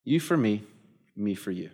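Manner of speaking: preacher hushing the key phrase to the congregation; soft, reverent. Shown as a demonstration. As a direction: let it sink in quietly. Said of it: "this one phrase".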